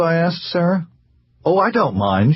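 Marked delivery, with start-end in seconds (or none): 1.4-2.3 cheerful. Acted. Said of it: "she replied cheerfully".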